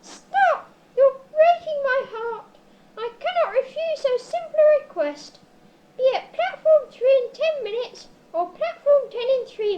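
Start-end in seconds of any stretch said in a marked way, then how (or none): 0.0-5.4 loud hammed-up cry of heartbreak; overacted melodramatic outburst; mock-tragic loud plea to stop; mock anguish. Neddy overcome by the plea.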